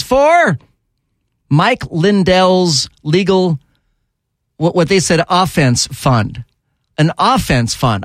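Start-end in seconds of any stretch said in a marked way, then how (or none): 5.3-8.0 offense said slow and heavy, falling; 把 offense 读得又慢又重; stress on offense. Real, not acted. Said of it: "I would think it would be a legal defense fund".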